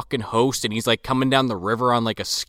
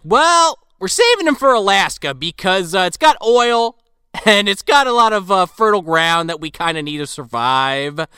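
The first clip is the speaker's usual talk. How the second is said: lightly voiced commissioner; 5 semitones higher, 3 dB louder than usual. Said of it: "the commissioner's like".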